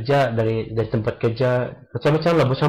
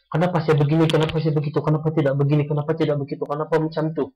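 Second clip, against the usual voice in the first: higher, questioning voice of a despairing mind; despairing questions; 3 semitones higher, faster than usual. Retold or imitated. Person with depression questioning themselves, in despair. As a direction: ask yourself over and over in despair. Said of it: "Dia akan keep asking".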